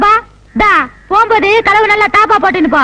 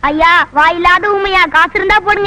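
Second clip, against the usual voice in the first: beggar's plea; 2 semitones lower than usual. Acted. Beggar pleading for alms.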